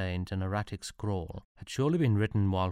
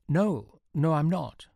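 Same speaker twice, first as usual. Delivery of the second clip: higher and louder, quick protest; panicked denial; 8 semitones higher, 5 dB louder, slower than usual. Acted. Frightened soldier protesting to the officer, higher and louder. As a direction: blurt it out in alarm.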